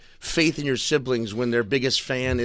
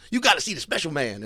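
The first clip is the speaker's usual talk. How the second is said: imitated old commercial; 4 semitones higher than usual. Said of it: "there's an old commercial".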